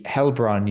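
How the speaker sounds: Heilbronn said as "Hellbron"; "hell-bron" for Heilbronn; mispronounced Heilbronn. Real, not acted. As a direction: say Heilbronn with a short "hell" first syllable. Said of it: "It's called Heilbronn".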